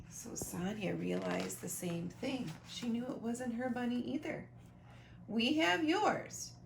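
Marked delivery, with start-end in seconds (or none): 5.3-6.5 slow daddy reply. Acted. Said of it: "replied Trixie's daddy".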